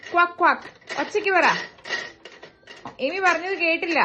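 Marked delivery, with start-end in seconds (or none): 0.1-0.7 two short imitated quacks; duck quack. Shown as a demonstration. Parent prompting the child with the duck's sound, imitated quacking. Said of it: "What does the duck say".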